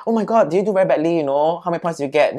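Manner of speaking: high, fast, fussing concern; mock concerned. Speaker acting concerned toward her classmate, quick and high. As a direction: gush over a friend's bad result. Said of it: "Then I'll be like".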